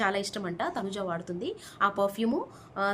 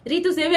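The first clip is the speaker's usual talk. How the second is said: mock happy wail; 4 semitones higher, 10 dB louder than usual. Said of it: "అని ఏడు".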